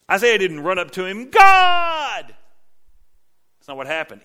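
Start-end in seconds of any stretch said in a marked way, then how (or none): 1.3-2.3 sudden high shout; awestruck cry. Retold or imitated. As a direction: cry out in holy terror. Isaiah falls before God.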